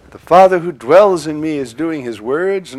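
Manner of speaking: loud scripture reading at full voice; loud proclamation. Shown as a demonstration. Priest proclaims the gospel line, loud. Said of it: "no, his works".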